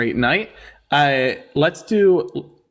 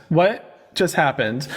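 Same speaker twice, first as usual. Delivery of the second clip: WHAT stretched long, then a pause before "just happened"; slow disbelief; much slower than usual. Real, not acted. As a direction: drag out WHAT, baffled. Baffled repeat, drawn out.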